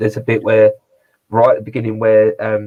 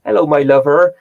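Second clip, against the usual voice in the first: imitating the wife; 5 semitones higher, 7 dB louder than usual. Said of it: "she's like".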